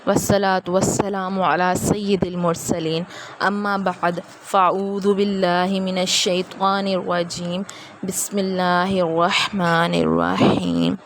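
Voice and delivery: slow, chanted Arabic opening; slow recitation. Acted. Teacher opening class with slow chanted Arabic blessing. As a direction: intone the opening blessing slowly.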